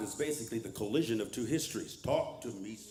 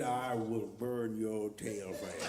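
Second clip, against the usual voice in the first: mock threatening God; 5 semitones lower, 4 dB quieter, slower than usual.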